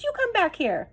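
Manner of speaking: high yell after the fleeing dog; shouting. Acted. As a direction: call the thief back, furious. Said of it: "shouted Ernest".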